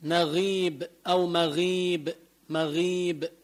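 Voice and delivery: مغيب with a thin "ghii"; light غ. Shown as a demonstration. Teacher modelling kasra, thin غ in مغيب. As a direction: keep the غ of مغيب light before the long ii. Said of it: "إذا كسرت ترقق".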